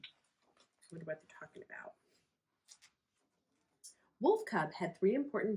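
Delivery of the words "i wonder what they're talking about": whisper. Real, not acted. Reader whispering to the children, hushed and curious. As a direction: lean in and whisper it. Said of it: "whispered aside to viewers".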